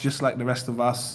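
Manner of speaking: ordinary talk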